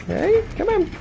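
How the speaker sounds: taunt. Real, not acted. Taunting the survivor.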